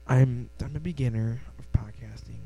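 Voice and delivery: normal talking voice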